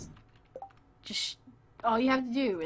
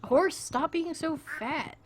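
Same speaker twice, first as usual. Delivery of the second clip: mock scolding; 7 semitones higher, slower than usual. Scolding the horse in game.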